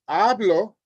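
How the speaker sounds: "hablo" as HA-blo, first syllable stressed. Shown as a demonstration. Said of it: "I speak, which is present tense".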